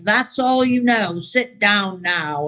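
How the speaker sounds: put-on slow, stern old-timer putting her in her place; stern sponsor. Sponsor ordering newcomer off the podium, slow and stern. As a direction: imitate the sponsor cutting her down, slow and deliberate.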